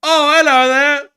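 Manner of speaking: very high, loud, slow goofy voice; squeaky cartoon character offering a plum; silly creature voice. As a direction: coo the offer like a cartoon critter.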